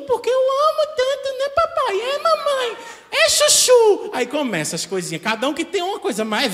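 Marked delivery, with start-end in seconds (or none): 0.0-4.1 put-on very high, loud sugary child voice; little boy's voice. Lover speaking baby talk to a partner, squeaky little-boy voice. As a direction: coo like a tiny boy begging daddy and mommy. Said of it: "Aquela vozinha de menininho".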